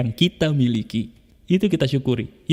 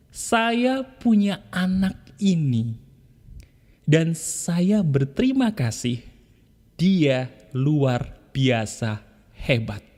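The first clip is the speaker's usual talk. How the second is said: tender affirmation; much slower than usual. Shown as a demonstration. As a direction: say it gently, hand on your child. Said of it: "kamu katakan begini". (ucapan syukur lembut dan pelan)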